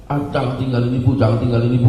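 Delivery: hint of a frightened old mother; frightened plea. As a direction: beg not to be left, lightly acted. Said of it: "Ibu langsung ketakutan".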